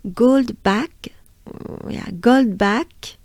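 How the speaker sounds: "Goldbach" in a French accent, rising at the end. Shown as a demonstration. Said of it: "very French way is".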